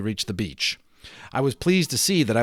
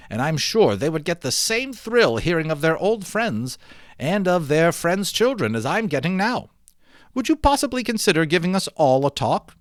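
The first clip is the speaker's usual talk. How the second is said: higher, lightly voiced, eager islander with an idea; a lightly voiced Mister F, higher and eager, pitching his plan; 5 semitones higher than usual. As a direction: brighten and lift the voice for Mister F's wonderful idea. Mister F proposes a talk.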